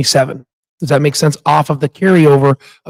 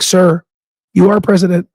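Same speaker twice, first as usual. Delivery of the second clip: mock polite retort; 4 semitones higher than usual. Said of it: "I almost wanted to comment".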